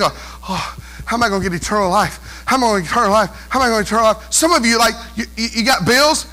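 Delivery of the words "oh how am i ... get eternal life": low, lightly mocked fretting; fretting believer. Preacher imitating listeners anxious over eternal life, mock fretting. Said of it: "some of you even think".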